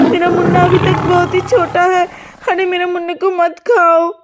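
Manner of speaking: a mild frantic plea, partly sobbing; mother begging the lion for her son; desperate pleading. Acted. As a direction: beg the lion to spare her baby.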